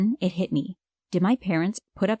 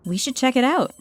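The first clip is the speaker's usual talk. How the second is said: eager, rising with curiosity; excited; 6 semitones higher than usual. A narrator's reading. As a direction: pitch it up with excitement. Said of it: "I was excited about the mysterious".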